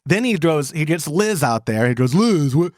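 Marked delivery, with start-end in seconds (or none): 2.2-2.7 slow, put-on voice of a baffled man; drawn-out mock questioning; imitating his questioning. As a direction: stammer it out slowly, mimicking him. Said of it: "the way he said it".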